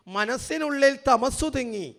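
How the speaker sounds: loud slow verse, തമസ്സു pressed hard; emphatic recital. Shown as a demonstration. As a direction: declaim the line, leaning on തമസ്സു. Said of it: "എഴുതി വച്ചിരിക്കുന്നത്".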